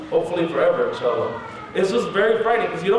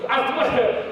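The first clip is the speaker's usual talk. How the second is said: higher-pitched insistent warning; retold warning; 6 semitones higher than usual. Patient warning the man examining him, insistent. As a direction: warn them in a raised pitch. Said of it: "I'm like".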